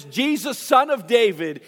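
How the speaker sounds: restrained retold shout; mock shout. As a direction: imitate a beggar calling out to someone passing. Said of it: "begins to shout out to him".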